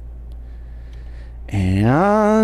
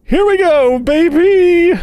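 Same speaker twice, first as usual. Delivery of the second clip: excited; 7 semitones higher, 7 dB louder than usual. Real, not acted. Psyching himself up.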